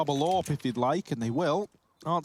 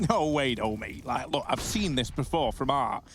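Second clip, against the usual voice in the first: Rush impression. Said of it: "that's my Rush impression".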